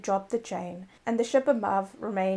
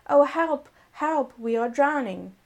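calling for help; 4 semitones higher, 4 dB louder than usual. Acted. Drowning crew calls for help.

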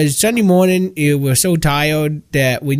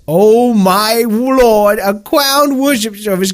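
awestruck gush; 3 semitones higher, slower than usual. Acted. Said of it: "sends chills down my spine".

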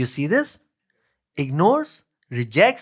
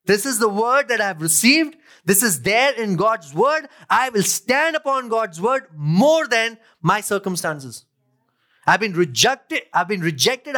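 defiant declaration; 4 semitones higher than usual. Retold or imitated. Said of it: "But she's like".

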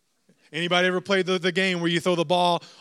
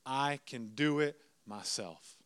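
soft, slow, deliberate declaration; quietly insist, word by word; defiant young son; 4 semitones lower, 7 dB quieter, slower than usual. Retold or imitated. Son looks dad in the eyes, quiet slow defiance. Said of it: "He looks me right in my eyes and says".

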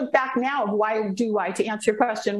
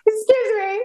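loud excuse me; 8 semitones higher, 5 dB louder, slower than usual. Retold or imitated. Retold protest again.

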